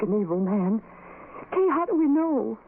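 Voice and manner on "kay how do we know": high, crying question; tearful fear. Acted. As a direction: voice cracking with dread. Friend spooked by poltergeist talk.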